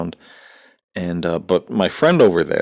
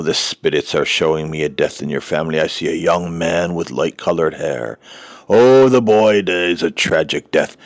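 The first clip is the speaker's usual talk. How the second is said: mock fraud medium; 3 dB louder than usual. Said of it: "this is a great one with the frauds".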